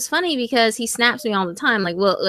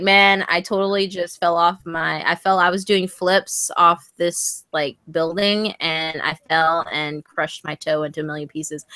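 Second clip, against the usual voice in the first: imitating him, slow and lower, dead serious; deadpan serious; 3 semitones lower than usual. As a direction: tell the tall tale with a straight face. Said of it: "he says it so seriously".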